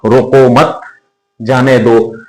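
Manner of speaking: "रोको मत" as one phrase, a gap, then "जाने दो"; pause after मत. Shown as a demonstration. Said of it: "या इसका".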